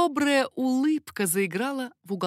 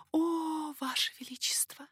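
breathy hushed whisper, much softer; 8 semitones higher, 5 dB quieter than usual. Acted. Baroness overwhelmed by the king's gaze, soft whisper. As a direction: barely breathe it, eyes lowered. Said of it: "тихо произнесла баронесса".

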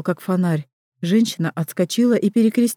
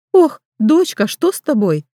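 put-on higher, louder alarmed old woman; worried old midwife; 6 semitones higher, 4 dB louder than usual. Midwife startled by the girl at her door, alarmed. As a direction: gasp it out, startled.

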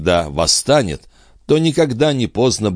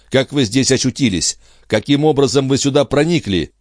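higher-pitched female character questioning an intruder; indignant lady; 8 semitones higher than usual. Acted. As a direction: demand an explanation in a lifted voice. Героиня допрашивает незваного гостя. (возмущённая дама, повышенным голосом)

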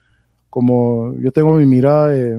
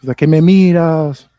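slow, mildly raised threatening yell; retold shout; slower than usual. Inmate yelling at him from afar, retold shout. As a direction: imitate a menacing challenge, stretched out slowly. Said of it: "Me empieza a gritar que".

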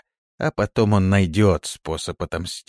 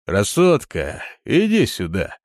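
mild thug call; 3 semitones higher, 3 dB louder than usual. A narrator's reading. Thug calls out to woman.

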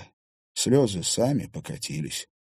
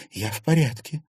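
stubborn; 7 semitones higher than usual. A narrator's reading. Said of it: "упрямо заявила Серафима".

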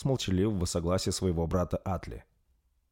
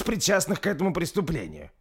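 proud lord's speech; 10 semitones higher than usual. A narrator's reading. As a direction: declare your candidate with solemn pride. Bersi speech end. (торжественная речь лорда, выше и громче)

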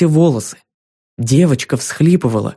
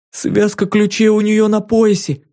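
excited whisper; 7 semitones higher than usual. A narrator's reading. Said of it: "возбуждённо прошептала пленница".

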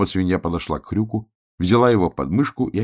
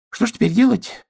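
high voice with a worried sigh; 4 dB louder than usual. A narrator's reading. Dandelion sighs about the blackened piglet. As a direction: sigh over the problem. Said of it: "вздохнул одуванчик".

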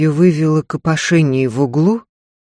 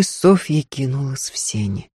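plain reading voice

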